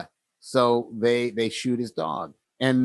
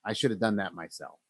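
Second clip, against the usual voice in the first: put-on regretful old man; 3 semitones lower, 9 dB quieter, faster than usual. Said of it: "he just stops and he says".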